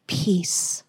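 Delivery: soft whispered peace; a hushed whispered answer. Acted. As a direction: breathe the word out softly.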